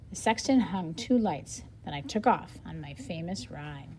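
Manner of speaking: lively storybook read with a light reporter and Paul voice; reading aloud to children. Acted. Teacher reading the interview aloud to her class, lively storybook style. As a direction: read it brightly so young listeners follow. Reads book dialogue aloud.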